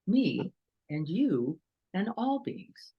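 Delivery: slow, deliberate, each word weighed; slow mindful phrase. Shown as a demonstration. Teacher modelling the phrase for students, slow and deliberate. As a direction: offer it gently as a practice. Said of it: "what if we said that before we spoke".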